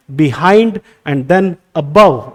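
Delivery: slow "behind", "above" as be-HIND, a-BOVE; weight the last syllable of "behind" and "above"; second-syllable stress. Shown as a demonstration. Teacher lists examples, "behind" and "above" stressed on second syllables. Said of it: "second syllable पे stress आप use कर रहे हैं".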